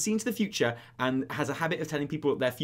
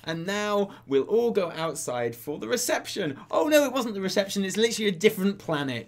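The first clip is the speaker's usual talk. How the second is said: apologetic bumbler; 4 semitones higher, 5 dB louder than usual. Retold or imitated. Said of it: "He's like".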